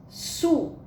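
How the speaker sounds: SUZANA in three pieces, SU, ZA, NA; high SU, then pauses between syllables. Shown as a demonstration. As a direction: sound out SUZANA for learners. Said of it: "aqui nós temos o nome".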